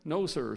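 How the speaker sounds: "No, sir" with a tentative, questioning tone; mildly unsure "No, sir". A narrator's reading. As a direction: say "No, sir" as if asking. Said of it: "He said it like it was a question".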